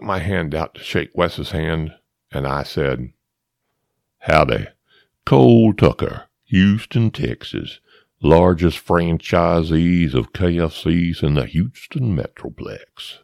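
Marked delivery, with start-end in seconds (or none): 4.2-13.2 hearty, slow salesman-style self-introduction; Cole Tucker. Acted. Shaking Wes's hand as a made-up tycoon, hammed-up. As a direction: introduce yourself big and loud, then draw out the boast. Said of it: "I called on my new friend".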